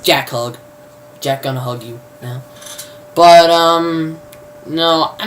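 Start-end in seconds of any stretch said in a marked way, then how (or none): 0.0-2.4 mock comforting. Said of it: "she starts crying. He's just like".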